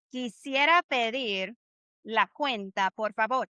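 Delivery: slow and clear for repeating; slow model phrase. Shown as a demonstration. Teacher modelling slowly for students to repeat like parrots. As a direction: spell it out slowly with your voice. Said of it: "Repeat, repeat, repeat".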